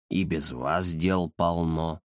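низко и тихо, лениво; отмахнуться от просьбы; ленивый кот Захар. Acted. (Захар лениво отказывает Индире)

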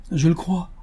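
high-pitched earnest agreement; exclaimed with conviction. A narrator's reading. Good lady answering the colonel, exclaimed with conviction. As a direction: affirm it wholeheartedly. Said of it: "s'écria la brave femme avec conviction".

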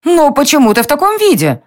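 indignant queen demanding an answer. A narrator's reading. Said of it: "с возмущением в голосе". (возмущённый вопрос королевы, выше)

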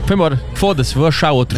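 lightly voiced silly dog. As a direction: speak as the abandoned dog, offhand. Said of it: "Na verdade, essa é a voz do cachorro".

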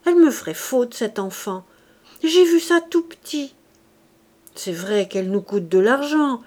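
falsely sentimental innkeeper, emphatic bursts; lightly voiced good-natured fellow, pleading; wheedling innkeeper. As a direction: protest your fondness to drive a bargain. Innkeeper feigns affection to bargain.

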